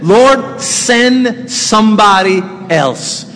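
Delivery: slow, pleading plea; reluctant Moses. Acted. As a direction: beg to be let off. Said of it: "that's what he said".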